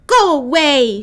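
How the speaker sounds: put-on loud, grumpy old man shout; old man yelling at squirrels out the window. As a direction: chase them off with a bark. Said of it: "shouted the old man".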